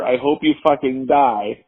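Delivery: reading the toothpaste message as a drawn-out yell, slowly; mock furious shout. The ex's toothpaste threat, as a mock slow shout. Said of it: "that said".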